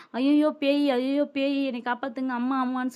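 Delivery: lightly hammed-up ghost panic; retold screaming. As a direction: act out children crying out for help, half-voiced. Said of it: "கத்திக்கிட்டு".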